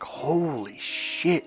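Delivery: very slow, hushed amazement; drawn-out imitation of being amazed; acted-out awe. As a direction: stretch it out, softly stunned. Imagined amazement at seeming magic.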